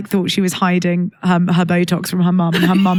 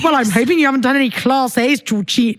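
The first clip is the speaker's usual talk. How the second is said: imitating mum's serious Scouse; lightly voiced Liverpudlian mother; 2 semitones higher than usual. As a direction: put on a mock Scouse telling-off. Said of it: "she goes all scousy".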